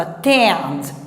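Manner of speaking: "attend" com A inicial reduzido a "â"; schwa inicial fraco. Shown as a demonstration. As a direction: deixe o A fraco e caia em "tend". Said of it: "ele é fraco". ("attend" grave, com primeira vogal átona)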